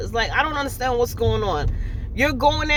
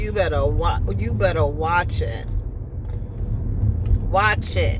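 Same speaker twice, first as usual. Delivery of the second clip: mock warning; 6 semitones lower than usual. Real, not acted. Mock threat to husband.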